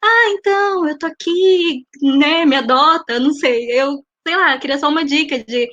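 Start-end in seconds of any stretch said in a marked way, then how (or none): 0.0-3.2 needy. Pretend. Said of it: "muito raso".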